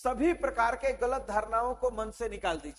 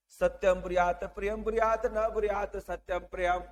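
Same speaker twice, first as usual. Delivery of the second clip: even, level-pitched recital of a maxim; Sanskrit verse recitation; 3 semitones lower than usual. Shown as a demonstration. Teacher quotes a Sanskrit maxim to students, even recitation. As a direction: recite it evenly as one continuous verse.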